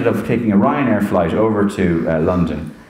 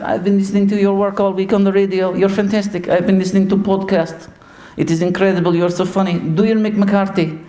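put-on higher Portuguese-accented Mourinho voice; Jose Mourinho impression; 9 semitones higher than usual. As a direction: gush praise in Mourinho's accent. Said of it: "I do his voice".

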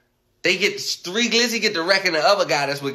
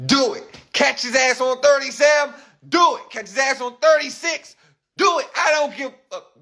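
high-pitched, insistent goading; worked-up urging; 8 semitones higher than usual. Retold or imitated. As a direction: egg them on, voice pitched way up. Urging voices retold, building to yelling.

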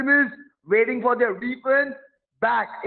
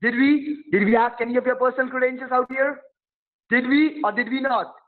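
fast, higher, heated grilling; he fires the questions at the caller, fast and raised; heated rant; 4 semitones higher than usual. Real, not acted. Scammer rants fast at the grandson, who tells him calm down. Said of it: "You calm down".

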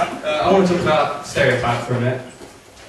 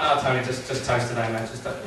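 weary refusal; 2 semitones lower, 6 dB quieter than usual. Acted. Refusing the tiger at breakfast.

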